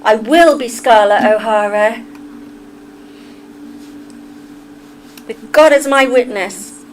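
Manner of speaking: Southern accent. Shown as a demonstration. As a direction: declare it like an amateur Southern belle. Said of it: "Immerse yourself in just southern accent".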